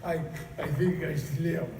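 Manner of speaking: put-on a drunk shouting down the phone from a bar; drunk bar call.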